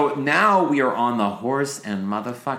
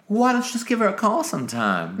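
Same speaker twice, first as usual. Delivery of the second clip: higher, offhand suggestion in a put-on voice; mock matter-of-fact; 13 semitones higher than usual. Imitating Blanche suggesting the call, higher and matter-of-fact. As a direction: toss it off as if it's nothing special. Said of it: "she says it in a way that's like".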